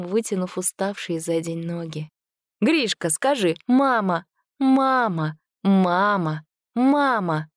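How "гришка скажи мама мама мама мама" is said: high, sing-song coaxing of a little one; voiced as Masha urging the foundling to say mama; coaxing a baby. A narrator's reading. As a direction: coax the baby to say its first word. Mother coaxing baby to speak.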